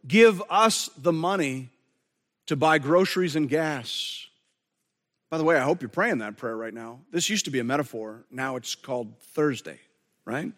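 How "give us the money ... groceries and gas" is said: earnest plea to God. Pretend. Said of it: "You're saying".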